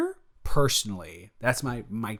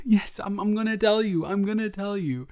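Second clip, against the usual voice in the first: giggly whisper; 10 semitones higher than usual. Real, not acted. Giddy whispered promise.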